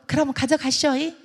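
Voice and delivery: lilting Jeolla concession; Jeolla dialect. Acted. Jeolla granny letting the buyer take it, lilting dialect. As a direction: give in with a Jeolla tag on the end. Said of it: "전라도 말로".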